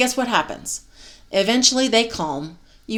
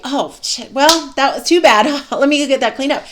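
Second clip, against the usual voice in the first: light mock cheer; 4 semitones higher, 4 dB louder than usual. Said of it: "let's say you're like".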